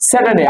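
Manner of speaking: স্যাটারডে run together the local way; quick, unaspirated স্যাটারডে; common mispronunciation. Shown as a demonstration. Teacher quoting how we say it, common mispronunciation. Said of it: "আমরা বলি কি".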